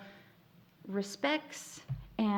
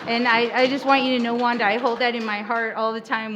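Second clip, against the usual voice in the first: emotional; 3 semitones higher, 8 dB louder than usual. Real, not acted. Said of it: "it makes me emotional".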